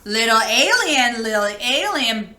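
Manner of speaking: bleeping robot. Acted. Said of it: "bleeped the robot".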